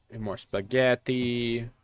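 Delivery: lightly put-on Italian accent, drawn out slowly; slow, half-hearted fake Italian; bad Italian accent. Shop player stocking spaghetti, in a hammed-up Italian accent. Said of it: "I do a shitty Italian accent".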